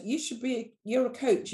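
lightly voiced friend pressing her point; insistent friend. Friend telling her she should be a coach, insistent.

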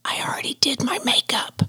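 soft breathy imitation of her whisper. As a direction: whisper it shyly like the girl. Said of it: "whispers and she goes".

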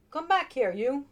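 high, loud chasing call. A narrator's reading. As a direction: yell after the runaway rabbit. Magician chasing rabbit.

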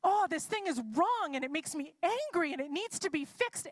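mock indignation about an injustice; worked up. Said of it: "worked up about something".

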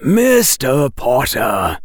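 slow, measured, deliberate teacher; lightly voiced cool professor; Professor Quirrell. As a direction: draw out the name, cool and controlled.

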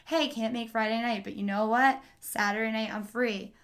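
flat, even, robotic reading of a friendly text; deadpan it like a creepy robot; monotone voice with no ups and downs. Shown as a demonstration. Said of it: "such a creepy monotone voice".

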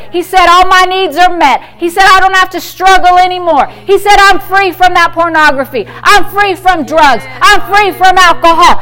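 loud, declaring confession of faith; bold confession. Pretend. Believer loudly declaring scripture against the devil, bold. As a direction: proclaim it with conviction.

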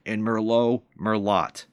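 "Merlot Merlot", second as "mer-LOT"; mock sounding out. Retelling the manager's gaffe, phonetic "Merlot". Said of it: "phonetically sounded it out".

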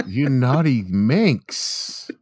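slow hammy seductive voice; drawn-out sultry tease; mock seductive.

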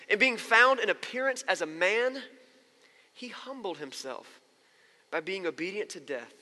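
measured, emphatic reading with long pauses; scripture reading. Acted. Pastor reading Philippians to the congregation, scripture reading. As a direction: read the passage aloud, phrase by weighty phrase.

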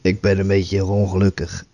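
talking with a real head cold; stuffy nose. Real, not acted. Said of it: "Ik merk het aan je stem".

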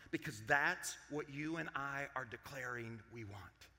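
low, hushed pronouncement; God's grave reply. Acted. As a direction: drop right down, soft and measured, pausing between warnings. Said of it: "And what does God say?".

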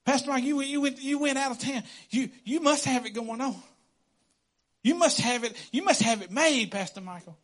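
mock-jealous church member; envious gossip. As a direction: poke at the pastor jealously.

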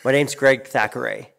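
"Thackeray" ending clearly in RAY; spelling pronunciation. Retold or imitated. Relatives give their name for spelling, "Thackeray" ending in ray. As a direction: say "Thackeray" with a full ay at the end. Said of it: "so for spelling, they're like".

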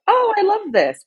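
high-pitched squeal of instant love; mock gushing. Imagining spotting a dress on the rack, mock gushing. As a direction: gush it in a put-on high voice. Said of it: "immediately just be like".

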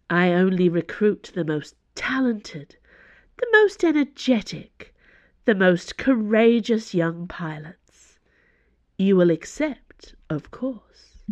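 lightly voiced Cardinal, slow and assured; a hint of a grand recruiter, savoring each superlative; imperious Cardinal recruiting.

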